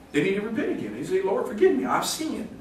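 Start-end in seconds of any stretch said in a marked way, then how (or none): 1.2-2.5 high, small-voiced prayer; mock contrite little prayer; acted penitent plea. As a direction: plead lightly up high, trailing softer. Acts a believer's quick prayer.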